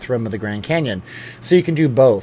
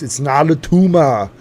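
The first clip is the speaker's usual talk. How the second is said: slow, drawn-out mock movie-hero voice; hammed-up catchphrase impression; put-on movie quote; 2 semitones higher, 4 dB louder than usual. Quotes famous movie line in put-on voice.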